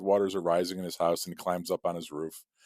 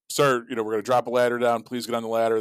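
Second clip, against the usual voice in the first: higher, louder voice calling down; mock yell; 4 semitones higher, 4 dB louder, faster than usual. Rescuer warning a man on his chimney, mock yell. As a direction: call out an urgent last warning. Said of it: "yells down".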